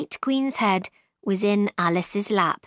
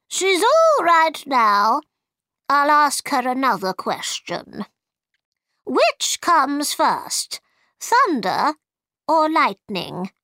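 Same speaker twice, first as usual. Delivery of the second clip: White Queen quizzing; 6 semitones higher, 4 dB louder than usual. Acted. White Queen questions Alice on thunder, high and deliberate.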